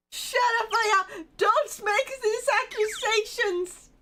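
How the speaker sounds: woman yelling at Maya to stop; angry shout. Acted. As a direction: snap back to silence her. Character angrily shuts her up.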